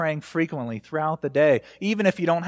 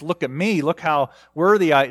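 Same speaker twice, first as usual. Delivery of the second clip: proud, showy prayer, louder at the end; mock boasting; 4 dB louder than usual. Preacher mocks a proud prayer, in a boastful voice. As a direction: puff yourself up before God. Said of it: "doesn't come to God from a place of strength".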